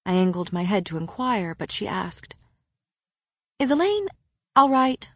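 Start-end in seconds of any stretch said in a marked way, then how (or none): 3.6-5.1 much higher-pitched, gentle asking; concerned question. A narrator's reading. Woman asking after the narrator's sister, concerned. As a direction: ask it high and anxious for her.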